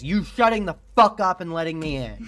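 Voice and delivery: exasperated, punching the swear words; irritated tirade. Real, not acted. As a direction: berate them with heated impatience. Streamer berating a game character.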